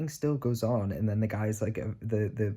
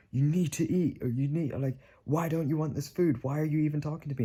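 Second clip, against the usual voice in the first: voix imitée plus aiguë, qui s'emballe vers la fin; imitating aggressive rant; 5 semitones higher than usual. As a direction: singer un râleur agressif qui s'énerve. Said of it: "like, aggressive".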